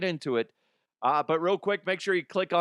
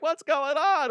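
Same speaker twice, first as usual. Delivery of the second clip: feigned politeness; 13 semitones higher, 4 dB louder, slower than usual. Retold or imitated. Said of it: "be like".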